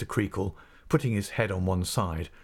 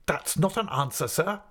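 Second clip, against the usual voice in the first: reproving schoolmaster; 8 semitones higher than usual. Acted. Creakle presses Steerforth.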